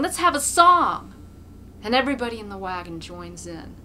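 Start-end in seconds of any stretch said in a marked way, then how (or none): 0.0-1.1 put-on loud, high drunken call; rowdy shout. A narrator's reading. A drunk in the wagon calling for a song, shouting. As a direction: whoop it out for a party. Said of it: "somebody shouts from the wagon".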